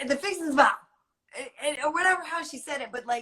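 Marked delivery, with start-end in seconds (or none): 0.0-0.8 imitated Southern answer, r dropped on "Bar"; Southern accent. Lady repeating herself to confused Pete, light Southern accent. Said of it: "basically at that point a Southern accent".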